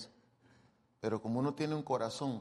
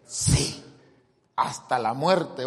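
sulky angry reply; 6 dB louder, much slower than usual. Retold or imitated. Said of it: "Le dijo Dios, "Jonás, ¿estás enojado?".

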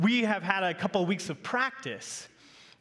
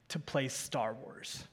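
laughing softly; 4 semitones higher, 8 dB quieter, slower than usual. Real, not acted. Son's funny answer, laughing.

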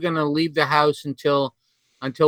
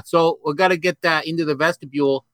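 New England accent on "vestibule". Shown as a demonstration. Asked to say vestibule, thick New England accent. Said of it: "with a thick New England accent".

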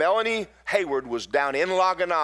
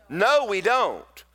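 emphatic slow no; 5 semitones higher, much slower than usual. Real, not acted. Preacher answering own question.

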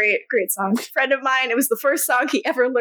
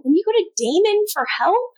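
higher, faster accusation; accusing; 8 semitones higher, faster than usual. Retold or imitated. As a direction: throw the question at her. Stefan voiced accusing.

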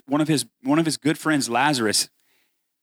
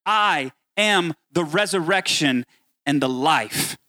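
proclaiming Jesus; 4 semitones higher than usual. Acted. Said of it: "he says".

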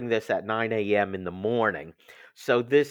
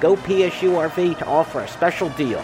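upbeat sponsor read, a bit louder; 4 dB louder than usual. Acted. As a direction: sell it like a radio spot. Host reads RV sponsor ad.

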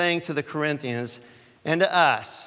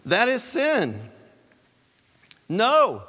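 raised, forceful pronouncement; high, loud preacher's rebuke; emphatic rebuke; 6 semitones higher, 4 dB louder, much slower than usual. Acted. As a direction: lay down the verdict with force. Paul's rebuke, acted by preacher.

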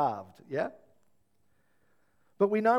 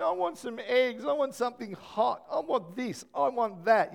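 put-on demanding kid; 5 semitones higher than usual. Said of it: "particularly Nathan".

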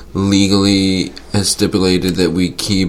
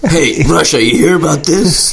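diplomat voice; 8 semitones higher than usual. Pretend. Diplomat role-play calling Russia.

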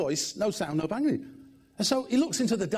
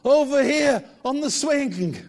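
put-on loud, slow drunken reply; drawled drunk answer from the swing; drunk man; 6 semitones higher, 6 dB louder, slower than usual. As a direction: deliver the punchline drawn out.

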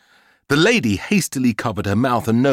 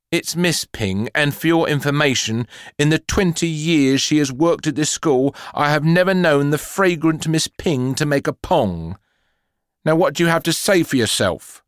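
higher, indignant headmistress; stern telling off; 5 semitones higher than usual. Acted. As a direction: scold her indignantly. Headmistress scolds the girl.

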